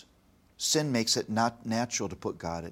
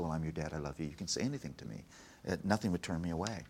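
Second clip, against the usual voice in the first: soft, low fatherly reassurance; tender and hushed; reassuring dad; 4 semitones lower, 6 dB quieter, much faster than usual. Retold or imitated. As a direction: gently coax her to open up, keeping it low. Dad reassuring his crying daughter.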